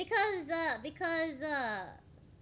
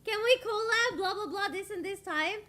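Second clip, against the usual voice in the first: tag; 7 semitones higher, 6 dB louder than usual. Acted. Acting out what she could have asked.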